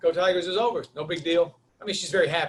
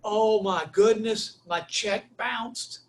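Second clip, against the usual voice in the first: embarrassed dismay; 3 semitones higher, much slower than usual. Retold or imitated. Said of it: "now I'm embarrassed".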